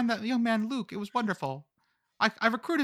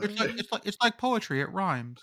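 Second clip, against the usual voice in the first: George Lucas impression. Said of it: "it's my George Lucas".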